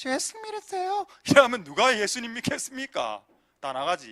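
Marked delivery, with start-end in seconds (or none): 0.1-1.1 reedy, very thin, very high-pitched voice. Speaker on becoming a pastor, showing how his voice sounds: very thin voice. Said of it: "내 목소리가 너무 너무 가늘어".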